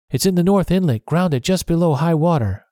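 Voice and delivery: urgent. A narrator's reading. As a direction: rush the secret out eagerly. Urgent news of the ship.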